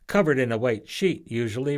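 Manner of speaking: put-on a girl's light snarky jab; snarky retort. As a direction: toss it off with mild sarcasm. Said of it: "Rose snarked".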